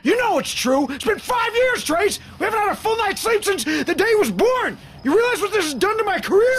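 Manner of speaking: high, loud, bitter yelling; husband shouting at his wife about their lost sleep; furious shout. Acted. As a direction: let years of exhaustion explode at her. Husband blows up in fight.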